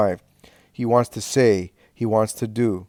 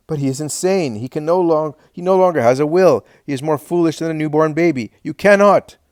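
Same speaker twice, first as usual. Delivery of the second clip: desperate shout; 6 semitones higher, 7 dB louder than usual. A narrator's reading. Daniel pleads Simon is insane.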